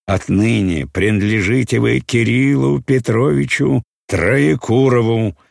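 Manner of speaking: хриплый, громкий и выше, с расстановкой; хрипит властно, как исправник; охриплый голос. A narrator's reading. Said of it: "произнёс охриплым голосом". (охриплым голосом исправника)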